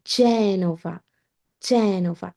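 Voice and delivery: জেনোভা as JEH-no-va; জেনোভা in Italian; correct Italian Genova. Shown as a demonstration. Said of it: "জেনোভা শহর না".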